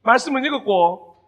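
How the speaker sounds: loud, stern grilling; mock-scary interrogation of a sinner; stern interrogating Jesus. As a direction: fire the questions like a strict judge. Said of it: "이렇게 하시는 분이 아니셨잖아요".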